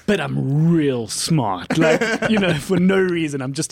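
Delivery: slow, lightly voiced mock boast; lightly mock a self-styled genius, drawing it out; boastful screenwriter. Comedian mocking an actor's self-written genius role, slow mock boast. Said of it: "he wrote the screenplay where he was like".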